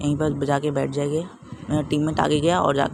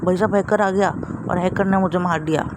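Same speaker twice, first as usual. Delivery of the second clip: alarmed shout; 4 semitones higher than usual. Real, not acted. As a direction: shout it as the enemy appears. Hacker arrives and kills him. (घबराकर ऊँची आवाज़ में चिल्लाना)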